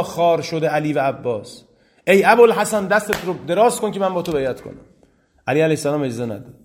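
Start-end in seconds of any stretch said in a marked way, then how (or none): 2.1-4.8 calling out. Retold or imitated. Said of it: "ابو سفیان آمد، گفت".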